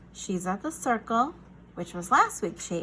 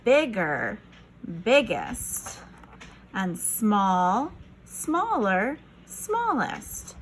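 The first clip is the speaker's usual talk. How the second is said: voice shows size; much slower than usual. Shown as a demonstration. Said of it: "Squares can be different sizes".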